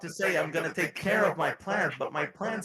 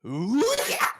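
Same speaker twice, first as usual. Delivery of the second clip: cartoon cat voice through a voice changer; 11 semitones higher, 8 dB louder than usual. Real, not acted. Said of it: "Oh, I thought you were Sylvester the cat".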